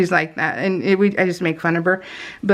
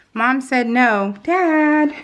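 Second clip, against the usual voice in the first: put-on slow, pleading daddy's girl, rising higher; imitating whiny daughter; 4 semitones higher, much slower than usual. Mom imitates daughter running to dad, slow pleading whine. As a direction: whine it to dad like a spoiled kid, slowly.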